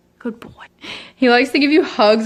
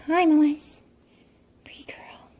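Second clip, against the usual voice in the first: higher, cooing pet voice; 6 semitones higher, 3 dB quieter than usual. Real, not acted. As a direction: coo at the cat. Greeting her cat.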